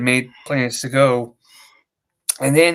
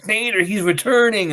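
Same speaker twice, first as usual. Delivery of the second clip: retold excitement; 8 semitones higher than usual. I got excited.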